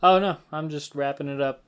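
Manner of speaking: ordinary delivery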